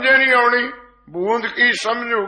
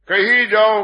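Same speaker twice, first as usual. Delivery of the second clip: louder, pressing urge to keep on; urging call; 4 dB louder than usual. Acted. Preacher urging the congregation to keep praising, emphatic. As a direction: push the listeners onward.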